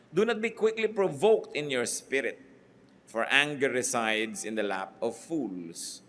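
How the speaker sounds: solemn Bible reading; scripture reading. Acted. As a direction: read the verse like holy writ.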